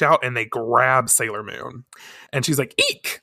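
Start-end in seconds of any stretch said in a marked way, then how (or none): 2.8-3.2 very high mock shriek; squeal. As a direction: squeak out a girlish eek. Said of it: "I don't think is the appropriate response".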